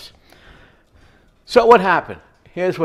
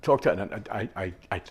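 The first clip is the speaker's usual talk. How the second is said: stuttering. Retold or imitated. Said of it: "I'm stuttering".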